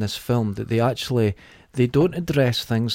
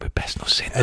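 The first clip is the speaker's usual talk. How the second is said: mock whisper; 4 dB quieter than usual. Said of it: "they just went".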